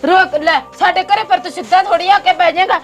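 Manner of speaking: mildly angry scolding; annoyed. Acted. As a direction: tell off the uninvited guest, irritated. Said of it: "ਗੁੱਸਾ ਕਿਉਂ ਕਰੀ ਜਾਂਦੀ ਹੈ?".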